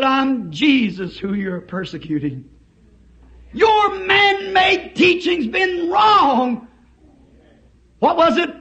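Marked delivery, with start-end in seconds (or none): 0.0-6.7 voice of Jesus. Acted. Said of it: "a voice coming from it said".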